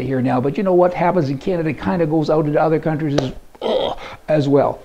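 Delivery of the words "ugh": a slow, drawn-out groan of disgust; disgusted ugh. Real, not acted. Fed up with the news, groaning a drawn-out ugh. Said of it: "Pardon me for the ugh".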